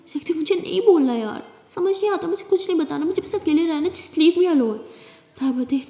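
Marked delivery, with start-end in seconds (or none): 0.3-4.8 raised, fed-up voice; exasperated, rising to a louder finish; angry outburst. Acted. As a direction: push them away in frustration. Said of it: "मुझे इस time बहुत गुस्सा आ रहा है".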